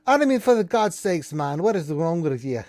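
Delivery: loud, high Scottish bluster; loud Scottish dwarf. Acted. Dwarf confronts the party, loud Scottish bluster. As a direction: berate the intruders in a big Scottish voice. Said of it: "she's like".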